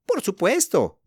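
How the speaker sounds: high, smiling shopkeeper; smiling agreement. A narrator's reading. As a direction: say it with an audible smile. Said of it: "dijo la dependienta sonriendo".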